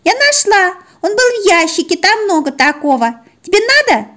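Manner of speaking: very high innocent little dog voice; proud little pup offering a find; puppy voice. Acted. Puppy tells owner she found the sock, high and proud.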